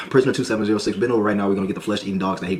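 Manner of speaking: fast, mildly barked guard order; a hint of a fed-up guard. Guard giving the prisoner a final order, fast.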